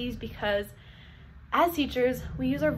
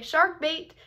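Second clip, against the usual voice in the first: call out; 5 semitones higher, 3 dB louder than usual. Shown as a demonstration. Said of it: "all you have to do is say".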